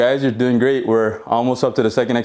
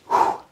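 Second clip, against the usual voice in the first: tired exhale; 3 dB quieter than usual. Real, not acted. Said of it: "This is hard work".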